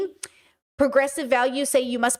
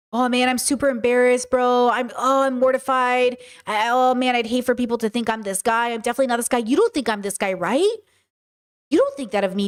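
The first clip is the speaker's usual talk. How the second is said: a hint of a fake-sorry dude pleading; mock guilty guy. Mimicking the man who wants her approval: lightly mocking, pleading. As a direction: lightly play the guy begging not to be seen as bad. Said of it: "We've all heard it before, girl".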